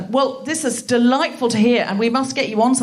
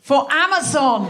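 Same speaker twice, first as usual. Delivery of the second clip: mock-outraged echo; 3 semitones higher than usual. Real, not acted. Host echoes lawyer's quiet admission.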